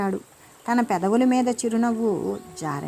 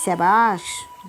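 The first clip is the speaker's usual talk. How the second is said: long drawn-out, louder "well done"; gloating praise; 4 dB louder, much slower than usual. Acted. Villain gloating over his captured victim, drawn out. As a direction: savour it like a villain. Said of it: "అన్నాడు మాదిరెడ్డి".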